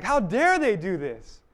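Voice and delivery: slow, indignant outburst; blood-boiling outrage, each word drawn out; indignant anger. Acted. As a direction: draw it out in righteous indignation. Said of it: "our blood is just boiling".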